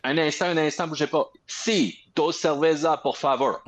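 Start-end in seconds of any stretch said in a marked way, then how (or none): 1.5-3.6 Spanish with an English accent. Real, not acted. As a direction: Anglo accent ordering in Spanish. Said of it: "mais avec un accent anglais".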